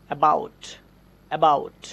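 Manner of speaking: about with a weak quick first a; light schwa in about. Shown as a demonstration. Teacher showing a light schwa sound. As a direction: barely open the mouth on the start of about. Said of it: "খুবই হালকা মুখ খুলে স্পিডে উচ্চারণ".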